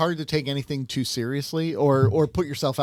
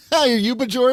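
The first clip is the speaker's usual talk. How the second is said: laughing; 10 semitones higher, 7 dB louder than usual. Real, not acted. Teasing while laughing.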